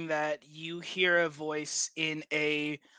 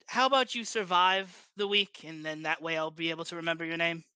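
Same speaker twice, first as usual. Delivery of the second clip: Armentine Ward. Acted. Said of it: "a very heavy Ondarian accent".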